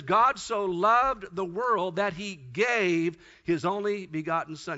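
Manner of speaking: stretched, solemn quote; John three sixteen, read slowly and reverently; slow scripture reading. Acted. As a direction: read it like a sacred line.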